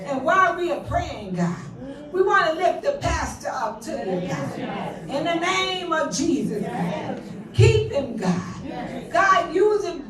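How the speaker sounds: fervent, rhythmic prayer with rising cries of God; praying aloud for the women, then intense prayer; public prayer. Acted. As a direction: lead the congregation in earnest prayer. Leads a long public prayer.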